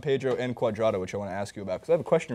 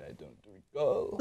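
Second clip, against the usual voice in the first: slow, softer mock Dutch accent of Van Gaal; Van Gaal's accent; 5 semitones lower, 8 dB quieter, slower than usual. Shown as a demonstration. Host imitates Van Gaal's accent on request, slow Dutch accent. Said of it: "Say it in Van Gaal's accent".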